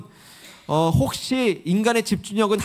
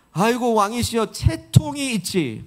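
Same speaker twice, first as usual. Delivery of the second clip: mock reproach; 3 semitones higher, slower than usual. Michal reproaches dancing David, mock reproach. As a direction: imitate a wife chiding, stretching the last words. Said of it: "미갈이 다윗을 책망하기를".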